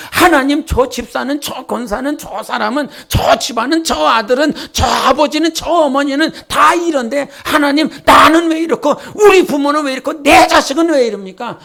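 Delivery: rising whine that bursts out at God; complaining prayer building to a shout. Retold or imitated. Preacher voicing a believer who shouts out complaints at God. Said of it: "그러면서 불평과 불만이 쏟아져".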